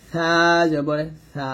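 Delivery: সা with tongue tip on the upper teeth edge. Shown as a demonstration. Teacher showing tongue placement to learners, tongue-tip sa. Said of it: "নিচে দাঁতে লাগানো যাবে না".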